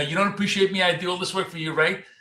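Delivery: high, acted, weepy near-tears crying voice. Retelling a Mad Men scene, imitating Peggy crying. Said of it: "she's crying like".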